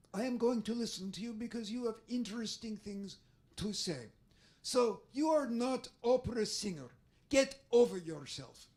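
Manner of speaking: put-on blunt foreign-accented dismissal; curt commando accent; Israeli accent. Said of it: "So sometimes I try to mimic her".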